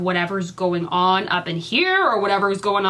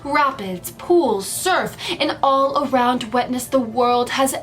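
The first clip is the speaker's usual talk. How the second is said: super dramatic voice. Acted. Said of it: "like, a super dramatic voice".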